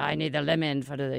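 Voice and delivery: put-on lightly done French chef accent; hint of a mock French chef; bad French accent. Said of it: "I have a really bad accent".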